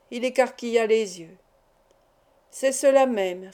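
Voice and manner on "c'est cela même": slower, each word set apart; said more slowly. Acted. Narrator repeating slowly to the innkeeper. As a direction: spell it out slowly for him. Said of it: "répétai-je plus lentement".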